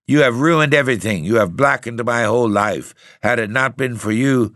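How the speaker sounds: high, loud, furious accusation that falters at the end; fierce reproach. Acted. Narrator furiously blames the ghost for ruining his life. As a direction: blame him with rising fury. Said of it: "I turned fiercely to the ghost".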